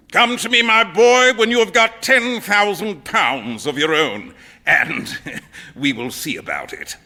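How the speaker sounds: a lightly played, jovial old colonel. Old colonel teasing his daughter's suitor, lightly voiced with a chuckle. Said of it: "he used to say".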